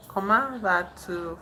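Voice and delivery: ordinary delivery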